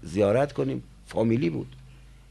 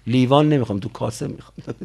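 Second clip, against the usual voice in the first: put-on fussy child; 3 semitones lower than usual. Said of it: "میگه".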